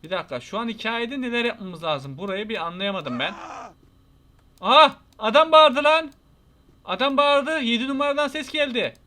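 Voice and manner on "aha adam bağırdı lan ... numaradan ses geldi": loud, high, alarmed outburst; startled exclamation. Real, not acted. Player hears a man yell from room seven, startled. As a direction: blurt it out, pitched up and loud.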